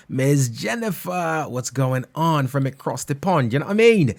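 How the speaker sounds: playful put-on Cockney accent; mock Cockney. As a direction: stretch the name out in cheeky Cockney. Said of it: "Gotta get my little cockney in".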